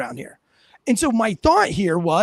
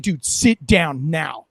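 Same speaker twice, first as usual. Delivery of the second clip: low, slow, firm command; slow stern cop voice; changed tone; 5 semitones lower, much slower than usual. Retold or imitated. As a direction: drop into a hard no-nonsense order. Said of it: "I changed my tone".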